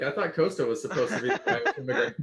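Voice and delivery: laughing quote. Retold or imitated. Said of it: "I was like".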